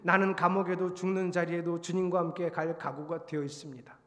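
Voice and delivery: firm, even recited confession; retold pledge like Peter. Preacher repeats Peter's pledge to the Lord, resolute recitation. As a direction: declare it steadily, as a solemn vow. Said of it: "베드로처럼 저도 이렇게 똑같이 읽으면서 얘기했어요".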